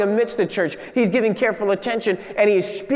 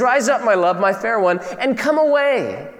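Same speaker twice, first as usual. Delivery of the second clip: tender reading; 3 semitones higher than usual. Pretend. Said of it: "I could hear him singing that".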